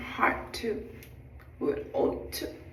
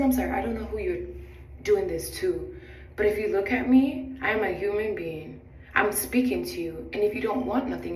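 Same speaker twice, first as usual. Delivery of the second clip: louder, indignant retelling; firm telling-off; 5 dB louder than usual. Retold or imitated. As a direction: stand up for yourself, firmly and loudly. Retells telling off the rude passenger.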